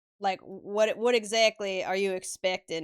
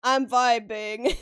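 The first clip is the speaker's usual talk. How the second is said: higher, louder playful whine at the critics; hammed-up comeback, pitched up; mock defensive protest; 5 semitones higher, 6 dB louder, slower than usual. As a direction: protest loudly, stretching out the last word. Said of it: "And I'm like".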